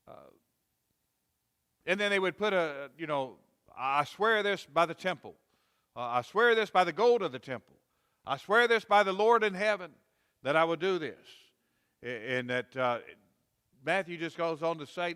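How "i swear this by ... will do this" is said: building from firm to loud oath; a hammed-up solemn vow growing louder; swearing an oath. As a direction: swear it louder with each line. Voicing Jews swearing oaths.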